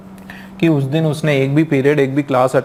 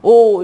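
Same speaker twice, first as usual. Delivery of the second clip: louder, higher acted "oh" of pain; mock tearful moan; 5 semitones higher, 6 dB louder than usual.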